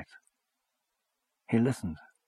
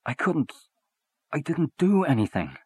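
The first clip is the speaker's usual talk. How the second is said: stammering; 7 semitones higher than usual. Acted. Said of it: "He began to stammer".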